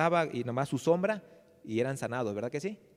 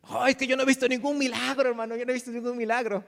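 higher, whiny voice of a doubting churchgoer; doubting brother; 8 semitones higher than usual. Retold or imitated. A skeptical brother grumbling to the pastor, high whine. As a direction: complain like a skeptic who never saw a miracle.

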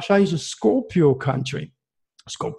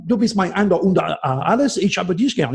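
harsh German; 3 semitones higher than usual. Shown as a demonstration. Astrologer showing the host that German sounds warlike, a harsh German delivery. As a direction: bark the German like a soldier of Mars. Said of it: "they sound like Martian".

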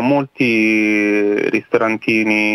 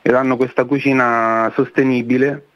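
voice giving out. Real, not acted. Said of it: "Scusate la voce, ma ho il covid".

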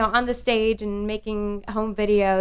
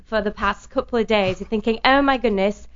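put-on light British accent, quite bright, getting louder toward the end; 2 semitones higher, 5 dB louder than usual. Guest greets the radio host in a put-on British accent. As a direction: chat to the host in a fake English voice. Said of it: "actually, that is not the way I talk".

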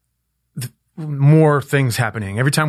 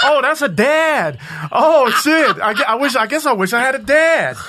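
laughing through tears; 14 semitones higher, 5 dB louder than usual. Retold or imitated. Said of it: "I was like".

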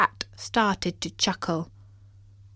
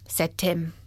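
plain reading voice

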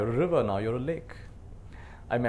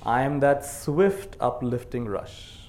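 slow, measured reading of a poem, line by line; poem recitation; much slower than usual. Acted. Teacher leads the audience through a memorized poem, slow recitation. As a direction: recite it slowly so the room can echo you.

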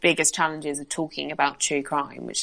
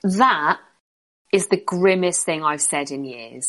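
laughing. Real, not acted. Laughs at own grim line.

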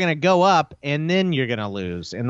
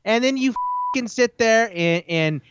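aggravated rant. Real, not acted. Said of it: "make me even angry".

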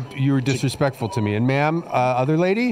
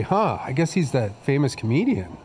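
usual speaking voice

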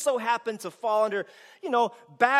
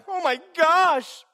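mock panic; 6 semitones higher, 4 dB louder than usual. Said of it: "He's not up there like".

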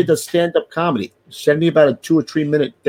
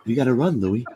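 escalating wake-up yell; 4 dB louder, slower than usual. Pretend. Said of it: "it'd be like this".

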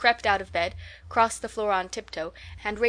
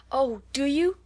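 high, louder eager cry; Oh, do you? pitched up in excitement; excited cry; 6 semitones higher, 3 dB louder than usual. A narrator's reading. Katy to her sister, excited cry. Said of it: "cried Katy".

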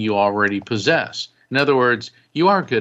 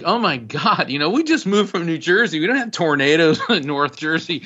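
panicked family; 6 semitones higher than usual. Retold or imitated. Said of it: "we're like".

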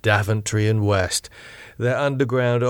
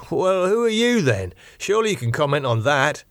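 higher, irritated demand; indignant hero voice; 6 semitones higher than usual. Acted. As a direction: push back, sharp and impatient.

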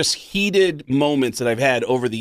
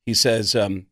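usual speaking voice

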